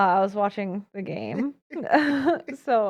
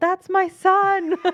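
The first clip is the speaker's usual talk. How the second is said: very high, loud shouted-out yell; 11 semitones higher, 6 dB louder than usual. Retelling what she yelled at the game when people looked over, retelling a yell. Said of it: "so I yelled".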